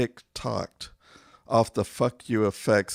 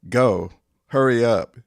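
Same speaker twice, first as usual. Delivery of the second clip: urgent shout; 8 dB louder than usual. Acted. Urging someone out.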